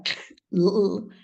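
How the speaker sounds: sounds pulled apart again: K, u, u; segmenting sounds demo. Shown as a demonstration. Teacher segmenting clavo for the children. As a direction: separate each sound with pauses. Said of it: "vamos separando esos sonidos".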